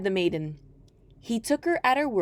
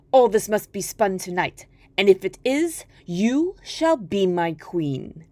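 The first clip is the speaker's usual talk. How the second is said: a hint of a commanding king, louder then whispered; a lightly voiced king; greedy king; 4 dB louder than usual. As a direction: decree it, then hush the promise. King demands and promises.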